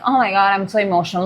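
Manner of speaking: fast, dramatic "oh my God" rush; hammed-up emotional overload, rattled off quickly; mock overwhelmed gush. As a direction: gush it out like you're drowning in feelings. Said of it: "Not like".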